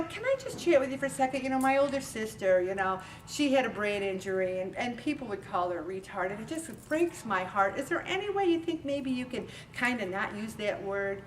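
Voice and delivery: soft, quiet, kind request; gently explain, no anger at all; calm and gentle. Shown as a demonstration. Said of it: "I very calmly say".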